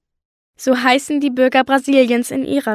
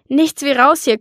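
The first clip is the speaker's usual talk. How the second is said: keuchend; 3 semitones higher, 3 dB louder than usual. Acted. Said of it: "keuchte ich".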